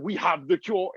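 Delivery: imitated Nigerian doctor's accent. Comic recalling movie doctors, mock Nigerian accent. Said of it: "trust that accent with that message".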